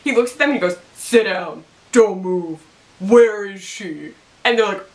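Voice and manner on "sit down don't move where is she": a hint of a commanding divine voice; God voice. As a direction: give orders like a deity, lightly. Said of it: "I love the use of God voice".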